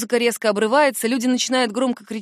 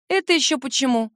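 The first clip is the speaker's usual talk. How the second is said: tipsy, slurred words; drunk slurring; 3 semitones higher than usual. A narrator's reading. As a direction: slur it a little, drunk. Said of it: "Язык заплетается".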